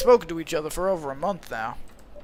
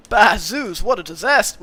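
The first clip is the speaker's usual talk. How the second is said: satyr line in the wrong character voice, a bit louder; accidental Georgie voice; 4 dB louder than usual. Acted. Streamer voicing the satyr, accidentally in Georgie's voice. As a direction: slip into the old cop's voice by mistake. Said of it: "I just gave him the same voice as Georgie accidentally".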